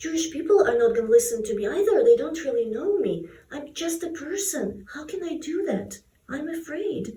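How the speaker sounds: unsure and a little afraid; worried Moses. Acted. Acting reluctant Moses doubting himself.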